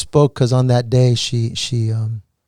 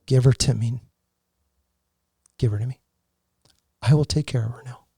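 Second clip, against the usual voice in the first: voice of God; 5 dB quieter, faster than usual. Retold or imitated. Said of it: "All I heard was".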